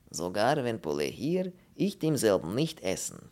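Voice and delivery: foreign character announcing in broken German; mildly triumphant Polish voice. Acted. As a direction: declare it as a small victory. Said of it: "verkündete der Pole triumphierend".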